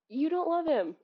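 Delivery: flat, emphatic accusation; blunt accusation. Real, not acted. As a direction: deliver the verdict bluntly. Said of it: "whoa, sorry".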